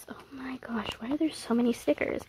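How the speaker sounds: whispered gush. Real, not acted. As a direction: hush it, but still thrilled. Quiet gushing over stickers.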